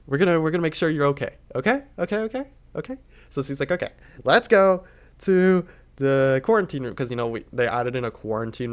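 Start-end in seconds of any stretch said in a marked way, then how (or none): 0.1-3.0 nice and sweet. Retold or imitated. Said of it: "nice and sweet". 3.7-6.9 sweet nurse voice. Retold or imitated. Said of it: "nice and sweet".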